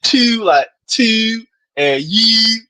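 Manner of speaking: "two" and "you" with drawn-out Baltimore vowels; Baltimore-style vowel. Retold or imitated. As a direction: stretch "two" and "you" in mock Baltimore accent. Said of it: "there's no way you say".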